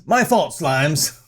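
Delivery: low slow tough-guy mumble. Retold or imitated. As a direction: drawl it like a thug. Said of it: "Why are you talking like this".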